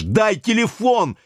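hoarse, rough, high-pitched yell for the phone; high hoarse shout. A narrator's reading. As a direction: rasp it out high and rude. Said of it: "выкрикнул Юра высоким голосом, очень хрипло и грубо".

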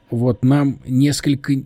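a touch of impatience; cutting someone off. Acted. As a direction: cut in on the rambler. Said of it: "оборвал его Саша".

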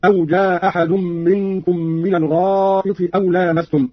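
"جاء أحد" merged with a single hamza; one hamza dropped. Shown as a demonstration. Teacher demonstrating Qalun's reading, "جاء أحد" with one hamza dropped. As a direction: say "جاء أحد" as jaa-ahad, one glottal stop only. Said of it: "بإسقاط الهمزة الأولى أو إسقاط الهمزة".

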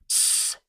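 тихое беззвучное «тссс»; шикнуть, чтобы замолчали; шипящее тсс. Acted. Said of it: "зашипели они через весь проход". (стража шикает на кошку: тихое шипение)

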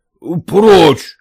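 shouting. Acted. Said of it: "закричал на мужиков".

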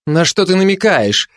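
high, indignant challenge; angry question. A narrator's reading. Mother suspects the fascist of innuendo, angry. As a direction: demand it with rising irritation. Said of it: "сердито спросила мать".

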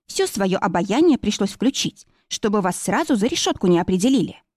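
ordinary delivery, nothing marked

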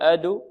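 أد released as 'adu'; wrongly leaning to damma. Shown as a demonstration. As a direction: show the error: add an u after أد. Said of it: "لا نقول".

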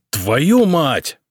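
loud angry curse, pitch up; yell. A narrator's reading. Emperor yells a curse at the newspaper, loud. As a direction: burst out cursing at the paper. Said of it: "Самослав заорал так".

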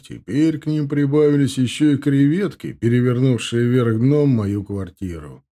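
hammed-up dejected complaint; theatrical sigh. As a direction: sigh it out with mock despair. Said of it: "театрально вздохнул и сник".

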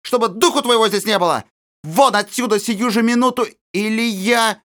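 put-on aunt screaming at the girl to get out; furious shouting. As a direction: hurl insults at the little girl. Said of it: "закричала она".

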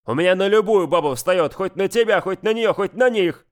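heated, rising half-yell; almost shouting. Acted. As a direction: get worked up until you nearly shout. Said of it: "почти крича в ответ".

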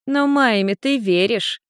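put-on high, slow, knowing child voice; slow down and press the point; pointed little girl. A narrator's reading. Little girl presses Ian about Maime, high and pointed. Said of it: "Люся не спрашивала, она утверждала".

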